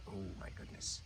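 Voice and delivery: hushed, amazed whisper; softly whispered amazement; awed whisper. Real, not acted. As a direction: let the wonder out under your breath. Amazed as snake swallows rat.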